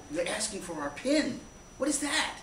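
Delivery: slow question climbing into a high squeak; baffled retold question. Traveller relaying the banks' request for a pin, baffled.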